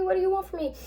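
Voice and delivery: desperate repeat. Retold or imitated. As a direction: beg the unseen voice, high and shaken. June running frantic up the steps.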